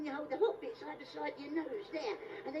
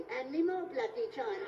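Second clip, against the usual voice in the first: Michael Caine impression; 2 semitones lower than usual. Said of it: "Jaws three".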